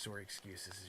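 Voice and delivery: a light Canadian accent on "sorry". Real, not acted. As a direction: say "sorry" as Canadian "sore-ee", softly. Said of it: "I did a Canadian sorry there".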